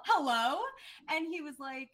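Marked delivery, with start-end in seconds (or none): 0.1-0.6 stammered hello, high and breaking into laughs; flustered laughing hello. Retold or imitated. Reporter flustered on the phone with the coach, giggling stammer. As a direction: laugh nervously through a stuttered hello.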